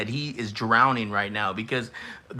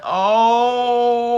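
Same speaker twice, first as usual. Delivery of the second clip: loud, much higher drawn-out oh; shocked exclamation; 10 semitones higher, 9 dB louder than usual. Real, not acted. Reacting to another roast.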